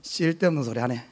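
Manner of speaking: "쓸데없는 소리 하네" muttered low and curt, brushing the question off; a touch of a blunt husband dismissing his wife; mildly gruff, unsmiling brush-off; gruff Gyeongsang husband. Retold or imitated. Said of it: "그러면 딱 하는 말이".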